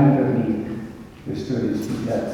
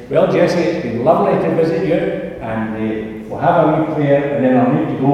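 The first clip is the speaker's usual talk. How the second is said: hurried goodbye; 3 semitones higher, 5 dB louder, faster than usual. Retold or imitated. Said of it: "and I said".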